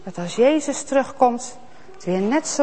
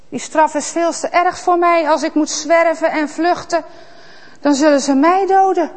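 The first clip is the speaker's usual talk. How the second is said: higher, anxious pleading; pleading Kaïn; 5 semitones higher than usual. Acted. Kaïn pleading with God about punishment. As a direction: beg for mercy.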